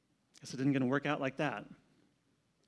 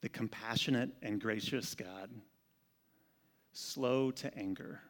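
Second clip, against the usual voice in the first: lower, softer, slow solemn divine voice; voice of God; 6 semitones lower, 7 dB quieter than usual. Acted. God proclaiming his name to Moses, low and solemn. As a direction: speak as God, grave and slow. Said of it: "He says".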